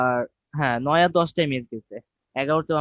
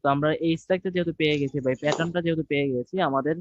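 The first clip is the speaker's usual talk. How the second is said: choppy lagging connection; words cut up by bad internet; buffering stutter. Real, not acted. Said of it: "আপনার কথা কেটে কেটে আসছে".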